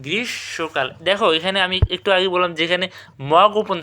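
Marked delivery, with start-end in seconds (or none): 0.1-0.9 গ্রীষ্মকাল as "grish-shokal"; silent m. Shown as a demonstration. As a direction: drop the m, double the sh in গ্রীষ্মকাল. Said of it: "কী হবে?". (গ্রীষ্মকালকে "গ্রিশ্-শোঁকাল" উচ্চারণ)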